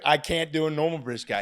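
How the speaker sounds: loud, high camp British accent. Shown as a demonstration. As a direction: put on a hammed-up British voice. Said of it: "I could do a British man, but he's always gay".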